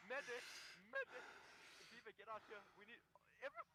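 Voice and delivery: screaming for a medic, very high; man down shout. Real, not acted. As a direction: shriek for help across the field. Calling for a medic under fire.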